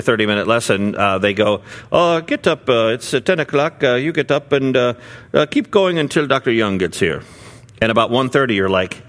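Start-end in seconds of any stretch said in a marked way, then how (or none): 1.9-7.2 a higher, put-on voice urging him to keep going; imitating Indian hosts. Hosts urging the American teacher to keep preaching, mock-urgent higher voice. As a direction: mimic the hosts pushing the preacher on.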